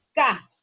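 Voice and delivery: "Ca" alone, punched loud and short; stressed syllable. Shown as a demonstration. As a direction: isolate "Ca" as the strong syllable. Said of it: "¿dónde suena más fuerte?".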